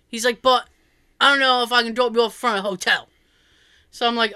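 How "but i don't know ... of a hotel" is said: quick imitation of a London cabbie; thick London accent. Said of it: "like, that thick accent".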